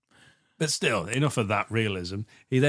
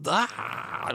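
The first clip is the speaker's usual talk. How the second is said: mock dying cry; 10 semitones higher than usual. Voicing men falling over dead.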